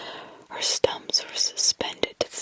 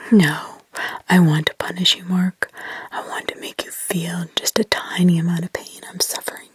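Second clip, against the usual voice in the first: put-on demonic child; 4 semitones lower, 6 dB louder than usual. Possessed girl accusing Mark, lower demonic whisper. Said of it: "She still had a child's voice in a way, but it was demonic".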